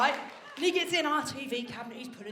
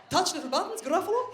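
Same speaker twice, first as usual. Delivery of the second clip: put-on toddler's Italian accent; 5 semitones higher, 4 dB louder than usual. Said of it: "she sounded Italian".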